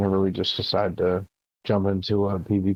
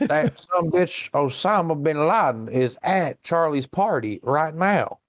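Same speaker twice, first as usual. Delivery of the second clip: high, slow hick drawl; drunk redneck; 7 semitones higher, slower than usual. Pretend. Imagined redneck reporting the party guest, slow high hick voice. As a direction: lay it out like a tipsy hillbilly on the phone. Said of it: "could you imagine being a drunk redneck".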